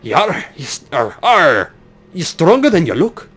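rough attempt at a pirate accent; butchered pirate accent. Pirate rallying mates to warn upper deck, butchered pirate accent. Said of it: "God, I cannot do this accent".

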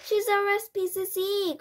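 high, loud, incredulous outburst; shocked cry. A narrator's reading. Father recognises the accused woman, crying out in shock. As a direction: cry out in astonishment. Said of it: "cried Mister Jenkins".

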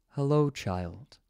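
calm, stately greeting, taking its time; clear, dignified. A narrator's reading. Mysterious wolf greets the frightened dog, lightly voiced dignified tone. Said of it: "a clear, dignified voice".

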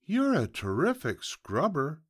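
high piglet voice; flattering piglet. Acted. Piglet praising the fox during the bath, high-voiced. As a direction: pay the compliment up high.

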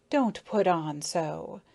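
slow, talking while chewing; mouth full. Acted. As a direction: say it through a mouthful. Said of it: "with its mouth full, chewing".

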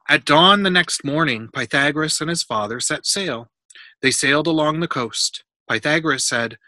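clear, animated read-aloud; storybook reading. A narrator's reading. Adult reading a Pythagoras book to a child, storybook reading.

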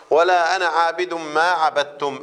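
slow chanted recitation of ولا انا عابد ما عبدتم with the م of عبدتم held; Quran recitation. Shown as a demonstration. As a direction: recite the verse slowly, tajweed style. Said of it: "ميم هنقوله ميم سكون". (تلاوة مرتلة ببطء)

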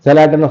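செலாட்டு starting with se-la instead of kl; wrong initial sound. Shown as a demonstration. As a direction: split the opening of செலாட்டு into se-la. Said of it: "சொல்லக்கூடாது".

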